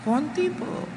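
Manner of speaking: squeaky high mock confession; sheepish wife. Preacher plays the nagging wife admitting it, squeaky and high. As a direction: answer like a guilty little girl. Sister answers if she's a nag.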